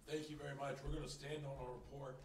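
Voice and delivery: hoarse, strained and quiet; a voice that is giving out; losing voice. Real, not acted. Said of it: "Sorry, I'm losing my voice".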